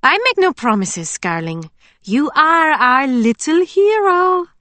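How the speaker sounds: put-on eager farm girl, relieved and chatty; bubbly young woman. A narrator's reading. Emily teasing voiced by narrator.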